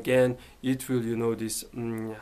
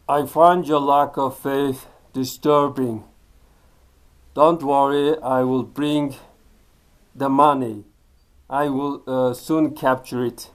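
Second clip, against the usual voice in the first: a lightly voiced, louder Darth Vader; hint of a menacing Sith lord, half in jest; Darth Vader quote; 6 dB louder than usual. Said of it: "sometimes say the Darth Vader quote".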